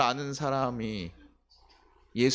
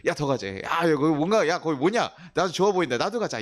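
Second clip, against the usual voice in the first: excited; 4 semitones higher, 4 dB louder than usual. Pretend. Spouse eager to join church.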